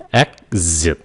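Exit said dropping low, like a Vietnamese heavy tone. Shown as a demonstration. Teacher models Exit with a dropped tone. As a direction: drop the voice into Exit. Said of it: "mình cố tình để dấu nặng nè".

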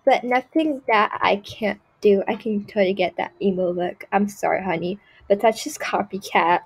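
lightly voiced spoiled snob, mostly her own voice; a picky diva turning up her nose at everything; Tiffany Prada. A spoiled girl judging everything in the game, lightly voiced snobbery. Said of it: "my little skit of Tiffany Prada".

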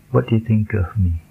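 "What do you think of me" linked, with "of" reduced to uhv; connected quick reading. Shown as a demonstration. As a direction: run "do you think of me" together, weak "of". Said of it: "kalau kita bacanya dengan cepat".

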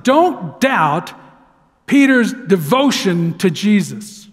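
DON'T DOUBT stressed word by word, slowing on "Peter's devotion to Jesus"; emphatic. Real, not acted. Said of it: "I wanna emphasize something".

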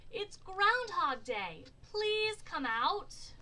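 high, loud, drawn-out call; storybook crowd calling someone out; crowd shout. A narrator's reading. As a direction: shout it slowly for the whole town. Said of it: "said with a shout".

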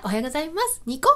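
imitating a friendly coworker's gentle greeting; amiable greeting. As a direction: greet sweetly with a smile at the end. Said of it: "愛想よくて".

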